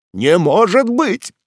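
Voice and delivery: put-on an old man struck by the news; shocked disbelief. A narrator's reading. Father hears his enemy's son's name, slow shocked cry.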